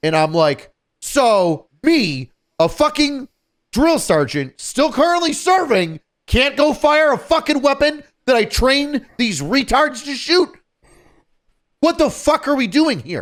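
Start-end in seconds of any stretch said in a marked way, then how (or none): 1.0-13.2 put-on, very high, loud, increasingly irritated rant. Retelling what was said to Zach: imitating talking loud, irritated. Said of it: "I'm getting loud 'cause I'm getting irritated".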